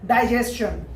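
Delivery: डाइजेशन as dai-JES-chun; s-chun ending. Shown as a demonstration. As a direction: model डाइजेशन with s and ch before the ending. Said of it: "ये सारे इसी तरह के words हैं".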